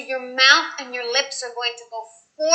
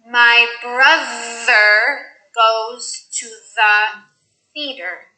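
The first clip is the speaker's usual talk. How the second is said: slow th practice; much slower than usual. Shown as a demonstration. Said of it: "Here are some sentences with the mixed sounds".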